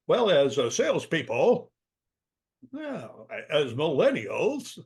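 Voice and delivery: mock presenter fumbling for a label, halting; awkward presenter. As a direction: imitate stilted, hesitant group-labelling. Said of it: "who talks like that?".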